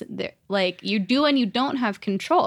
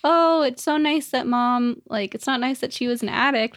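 wistful; 3 semitones higher than usual. Retold or imitated. Daughter remembers comparing herself to mom, wistful. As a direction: admire with a touch of longing. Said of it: "like, wistful".

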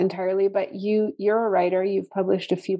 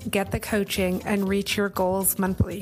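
ad read. Acted. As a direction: read it like a podcast promo. Ad read for academy.

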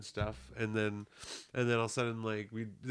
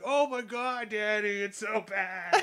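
higher, laughing mock embarrassment; embarrassed lady; 9 semitones higher, 4 dB louder, slower than usual. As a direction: play the blushing lady who blames him. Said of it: "was like".

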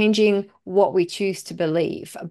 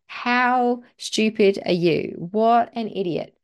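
put-on belittling a child; 2 semitones higher than usual. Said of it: "you looking down at them going".

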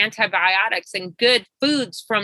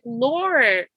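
slow, higher-pitched plea, overcome; emotional prayer; 4 semitones higher than usual. Retold or imitated. Coach praying over her client's news, slow and moved. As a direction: marvel aloud to God, drawing the words out. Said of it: "I just started crying".

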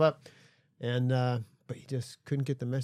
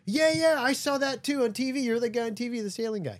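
much higher, louder, eager redneck recognizing a celebrity; excited redneck guy; 12 semitones higher, 6 dB louder than usual. Retold or imitated. Ski lodge stranger recognizes the sailor from TV, high eager yelp. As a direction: gush like a starstruck local who saw him on TV. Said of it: "some big redneck guy".

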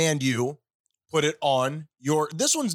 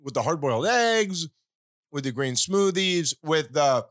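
chewing while talking; mouth full. Real, not acted. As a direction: talk through a mouthful. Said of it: "Stop talking with your mouth full".

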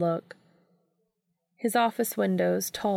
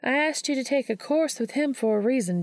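steely; 6 semitones higher than usual. A narrator's reading. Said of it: "letting some of her inner steel lace her voice".

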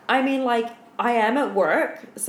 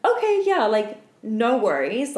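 breezy reassurance; 2 semitones higher than usual. Retold or imitated. Stripper reassuring a customer at the bar, breezy. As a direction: brush it off lightly.

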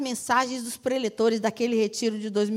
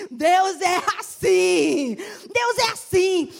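laughing; 2 semitones higher, 4 dB louder, much slower than usual. Real, not acted. Laughing exclamation to congregation.

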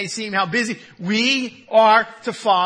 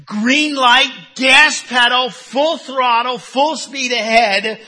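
rising preacher's call; 2 semitones higher, 4 dB louder, slower than usual. Real, not acted. Preacher builds the image of go.

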